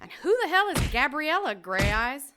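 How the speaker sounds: loud, rising furious tirade; jealous rage. Acted. Jealous woman screaming at her rival, furious and loud. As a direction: tear into her, voice climbing.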